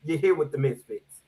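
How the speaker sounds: hype host voice. Acted. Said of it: "Would you like more of an ethnic approach?".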